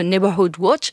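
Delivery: Neighborhood Watch in a self-mocking French accent; clumsy French-accented English. Real, not acted. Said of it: "pardon pour mon accent English tout pourri".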